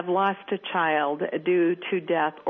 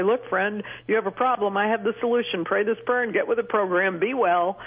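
mock pushy preacher; 2 semitones higher than usual. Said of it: "I like to grab them and say".

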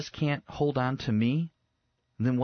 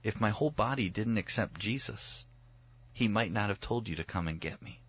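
softly quoted, slightly lowered and earnest; hushed, mild solemnity; subdued retold child; 2 semitones lower, 5 dB quieter than usual. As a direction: say it gently, as a shaken child confiding. Son's solemn words after rescue.

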